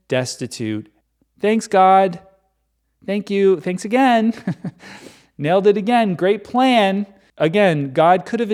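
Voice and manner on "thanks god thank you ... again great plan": dry sarcastic gratitude toward God; sarcastic thanks. Real, not acted. Speaker mocking God's plan, sarcastic. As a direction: thank him like he blew it.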